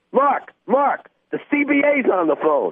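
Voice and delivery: very high, drawn-out scream. Retelling a coach grabbing the phone during a game: retelling a scream. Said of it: "screams out".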